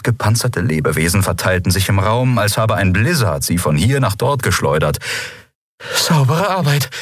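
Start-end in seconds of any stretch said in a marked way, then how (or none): 5.9-6.9 higher, breathless praise; panting, grudgingly impressed. A narrator's reading. Woman to her comrade after the fight, panting, grudgingly impressed. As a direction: pant out reluctant admiration. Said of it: "keuchte sie, widerwillig beeindruckt".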